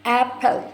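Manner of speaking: "एप्पल" in two distinct beats; syllable by syllable. Shown as a demonstration. Teacher showing two parts, "एप्पल" divided into syllables. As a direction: separate the two halves of "एप्पल". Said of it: "दो हिस्से हैं".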